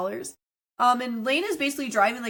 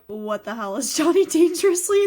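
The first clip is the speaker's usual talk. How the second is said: puzzled listener; 6 semitones higher, 6 dB louder than usual. Retold or imitated. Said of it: "everybody that's listening right now is like".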